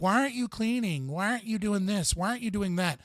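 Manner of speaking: high whiny complaint; whiny nagging. Retold or imitated. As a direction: nag in a whining voice. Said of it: "bitching and crying and being like".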